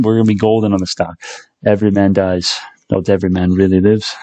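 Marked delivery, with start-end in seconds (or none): 1.6-4.1 put-on faint Scottish accent, barely there; a weak try at a Scottish William Wallace; bad Scottish accent. Quoting Braveheart to viewers, hint of Scottish accent. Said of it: "my Scottish accent is so bad".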